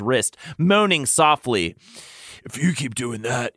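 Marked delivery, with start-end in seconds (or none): 2.4-3.5 understated character warning; warned. A narrator's reading. Lucian cautions the lover, warning. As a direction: warn gently. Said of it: "he warned".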